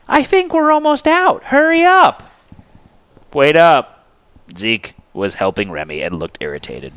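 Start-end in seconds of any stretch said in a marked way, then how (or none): 0.1-2.3 high, loud urgent call; shouting. A narrator's reading. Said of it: "she shouted". 3.3-4.0 loud, irritated call back. A narrator's reading. Zeke calls out, irritated.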